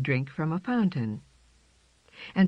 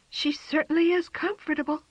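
tired; 13 semitones higher than usual. A narrator's reading. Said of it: "said tired Jane".

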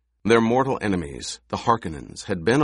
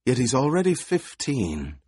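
put-on higher, wheezy old woman; old crone voice; 4 semitones higher than usual. A narrator's reading. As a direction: voice the crone with a twang. Old crone speaks in story.

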